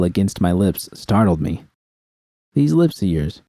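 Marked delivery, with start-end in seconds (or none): 2.5-3.4 a light, teasing purr. Acted. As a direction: purr it at him, only mildly seductive. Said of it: "Rita purred".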